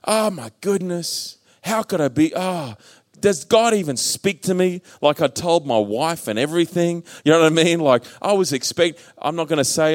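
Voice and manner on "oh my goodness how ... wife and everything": slow, drawn-out exclamation of disbelief to start; mock dismay. Preacher reliving doubt after telling his wife, mock dismay. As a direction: act out a dismayed lament.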